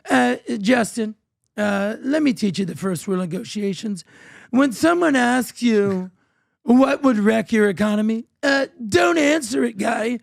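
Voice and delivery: slow, drawn-out imitation of Trump, rising to a shouted "don't answer it"; Trump impression. Retelling Ben Shapiro's bit, Trump scolds Trudeau in a slow mock Trump voice. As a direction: lecture Justin like a smug boss, milking each word. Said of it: "Ben Shapiro actually did a decent Trump accent".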